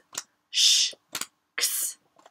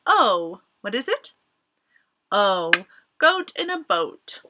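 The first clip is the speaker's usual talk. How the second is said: exaggerated cartoon intonation; 2 semitones lower, 3 dB louder than usual.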